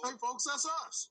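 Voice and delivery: telephone voice. Shown as a demonstration. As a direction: sign off brightly in a customer-call voice. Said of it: "That was your telephone voice".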